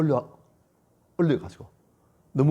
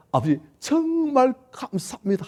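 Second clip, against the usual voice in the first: forced thanks; 11 semitones higher, 4 dB louder, slower than usual. Acted. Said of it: "아버지 앞에서".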